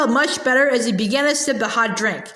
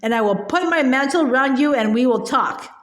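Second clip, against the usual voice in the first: sweet different voice. Acted. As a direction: switch to a falsely kind tone. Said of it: "she said in quite a different voice".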